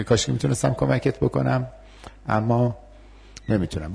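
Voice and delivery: gentle refusal. Shown as a demonstration.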